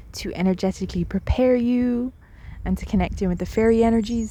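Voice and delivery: unhurried meditation guide with long pauses; guided meditation. Real, not acted. Guide inviting listeners to settle in, guided meditation voice. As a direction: gently lead them in, leaving space between phrases.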